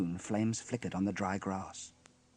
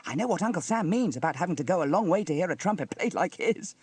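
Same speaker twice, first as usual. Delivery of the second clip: put-on higher, louder amused child voice; amused chuckle; 7 semitones higher, 5 dB louder than usual. A narrator's reading. Sarah mocks Uncle Sam's boast, amused. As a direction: tease with a touch of a chuckle. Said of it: "chuckled Sarah".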